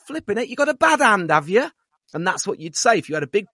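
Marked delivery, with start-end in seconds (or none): 0.1-1.7 high, loud teasing Midlands mum; a lightly voiced Black Country mum; mum's saying. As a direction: tease someone with a full plate. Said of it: "My mom always used to say".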